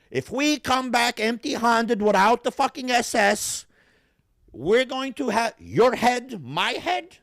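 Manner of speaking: high, slow, frantic warning; panicked German soldier. Retold or imitated. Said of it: "he's just like".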